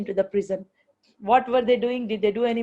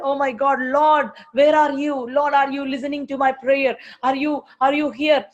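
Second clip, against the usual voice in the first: anxious prayer; 2 semitones higher than usual. Retold or imitated. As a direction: plead with God like someone who feels abandoned. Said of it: "We don't know what happened".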